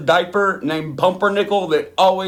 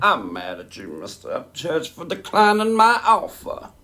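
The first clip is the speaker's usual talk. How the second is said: mock Red Dead Redemption dialogue. Host mocking Upchurch's declined offer, hammed-up. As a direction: parody an offended game character. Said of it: "trying to sound like Red Dead Redemption dialogue".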